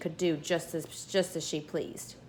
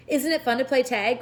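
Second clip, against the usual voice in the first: put-on higher, louder child's call from the rooftop; a lightly raised happy cry; gleeful cry; 4 semitones higher, 5 dB louder than usual. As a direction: call down, delighted with the game. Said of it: "cried Pippi".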